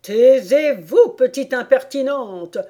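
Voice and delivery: loud, high, enraged queen; furious roar. A narrator's reading. The queen turning crimson at Alice, furious roar. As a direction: roar it out, stretching the first word. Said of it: "rugit la reine".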